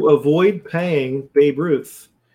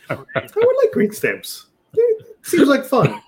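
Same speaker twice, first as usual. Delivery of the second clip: sarcastic; 11 semitones higher, slower than usual. Pretend. Mocking green stamps idea.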